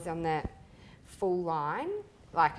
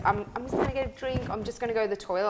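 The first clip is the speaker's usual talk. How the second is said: mock excuse; 3 semitones higher, faster than usual. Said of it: "what are your excuses".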